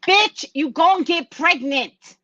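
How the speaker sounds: slow, high and loud, every word landed; blunt sass. Real, not acted. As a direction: tell her straight with sass. Blunt retort to client.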